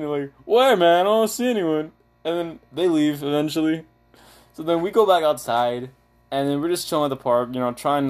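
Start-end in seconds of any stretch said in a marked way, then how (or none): 0.4-1.9 high, louder imitation of a yelling friend; mock yell, pitched up; retold yelling. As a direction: act out his loud, bewildered protest. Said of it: "he's just yelling".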